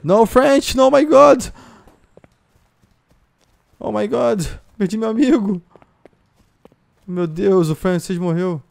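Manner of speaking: very high, loud wail of loss; distraught shouting. Pretend. Player mourns French friend's death in game, dramatic high wailing. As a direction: cry out as a comrade falls.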